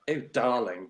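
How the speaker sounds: mock posh British accent. Showing what Americans expect, mock posh British accent. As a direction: put on a posh British voice, briefly. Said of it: "they think of a posh accent like".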